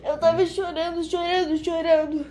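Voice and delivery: words wobbling as real tears come through; voice breaking into tears. Real, not acted. Telling a friend about the vision, voice breaking into tears.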